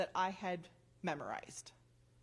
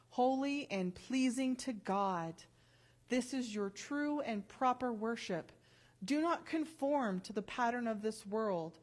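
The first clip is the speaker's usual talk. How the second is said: scripture reading. Acted. Reads Romans 12 aloud.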